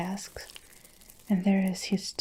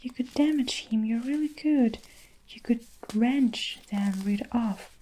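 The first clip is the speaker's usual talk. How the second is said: pleading; 3 semitones higher than usual. Acted. Miss Honey keeps pleading.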